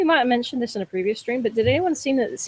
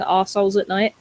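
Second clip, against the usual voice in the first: imitated Cockney, "Our" flattened to "arse"; dad's Cockney accent; 3 semitones lower than usual. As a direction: say it like a Cockney dad, slightly lower. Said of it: "in his Cockney accent".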